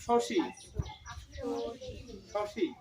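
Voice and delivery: শশী with the final ই held long and stressed. Shown as a demonstration. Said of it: "দীর্ঘইকার আছে, একটু মানে জোর দিতে হবে". (দীর্ঘ ঈ-তে জোর দিয়ে)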